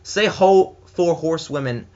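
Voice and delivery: carefully slow, testing each word; slow tongue twister. Shown as a demonstration. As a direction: spell out the tongue twister slowly. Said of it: "That's a tongue twister right there".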